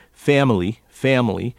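family as the New York actor would say it; his normal family. Shown as a demonstration. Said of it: "or as he might say".

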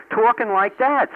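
old New York accent put on. Shown as a demonstration. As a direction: say it like a native New Yorker. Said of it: "I have the New York accent".

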